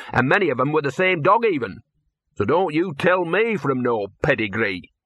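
high, outraged rant; indignant scruffy talking dog. Acted. Gaspode defending his ancestry to Victor, high indignant rant.

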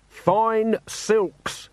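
high, slow indignant shout; shouting merchant. A narrator's reading. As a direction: shout your grievance across the square. Jenkins repeats indignantly.

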